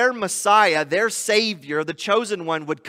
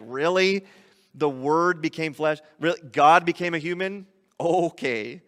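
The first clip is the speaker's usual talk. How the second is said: skeptical scoff. Retold or imitated. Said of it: "has said things like".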